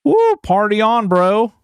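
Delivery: high whooping party bro; party cheer. Pretend.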